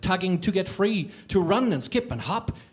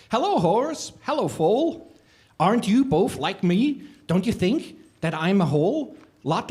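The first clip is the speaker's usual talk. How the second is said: lightly raised, hopeful questioning voice; a touch of an eager little creature; 3 semitones higher than usual. Acted. Little creature pleading with the horse, lightly voiced. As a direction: ask each animal hopefully, a little higher. Creature asks animals, narrated story.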